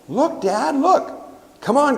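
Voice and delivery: put-on high, excited toddler pleading; a two-year-old tugging at dad, high pitched; little boy's voice. Toddler begging dad to see, high and excited. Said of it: "I hear his little voice go".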